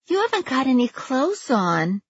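very high, fluttery woman's voice; a flustered homeowner calling from the porch; anxious neighbor Judy. Acted.

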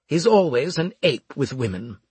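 lightly voiced snide officer. A narrator's reading. Officer to medic about his soldier, lightly voiced disdain. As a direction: lightly play a disdainful superior.

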